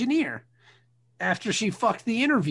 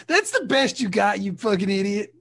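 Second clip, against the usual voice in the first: angry scolding; 4 semitones higher, 5 dB louder than usual. Acted. Scolding the creep.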